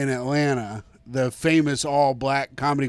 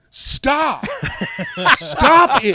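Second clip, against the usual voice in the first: high, louder pleading stop; urgent plea; 11 semitones higher, 3 dB louder, much slower than usual. Retold or imitated. Arcuri begging his friend to stop insulting, high plea. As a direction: beg your friend to quit it. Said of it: "And Arcuri goes".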